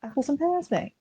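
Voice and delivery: lightly done Cockney, mate; a hint of Cockney; Cockney attempt. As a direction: reach for a Cockney lilt. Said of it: "I can't do Cockney anymore".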